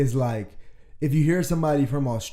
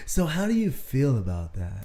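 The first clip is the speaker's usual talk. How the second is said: lightly voiced, slow therapist questioning; mock therapist. Man teasing psychology graduate, slow mock therapist. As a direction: ease into a measured, probing question. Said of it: "I'm analyzing right now".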